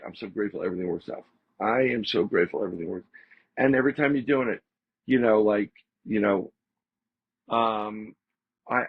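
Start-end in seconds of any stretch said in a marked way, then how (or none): 0.0-3.0 fast, softer, rattled-off repetition; rapid quiet mantra. Shown as a demonstration. Repeating his gratitude mantra to the listener, quick and soft. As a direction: rattle it off like a daily habit. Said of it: "And you say it".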